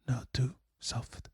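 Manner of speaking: very soft, slow whisper; barely voiced, hushed; whispered demonstration. Shown as a demonstration. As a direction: whisper it slowly. Demonstrates softness by saying it.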